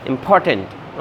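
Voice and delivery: "important" with a strong aspirated P on POR; "important" with weight on POR; stress on P. Shown as a demonstration. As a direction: hit the P in "important". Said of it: "पी पे यहाँ पर stress".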